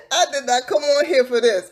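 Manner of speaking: laughing through the words in disbelief. Real, not acted. Laughing to her viewers that she didn't come for this. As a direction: laugh it out, can't believe it.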